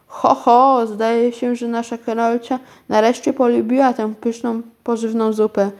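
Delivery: a hint of a delighted aunt; pleased aunt. Aunt sees the empty plate, mildly pleased. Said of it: "ucieszyła się ciotka".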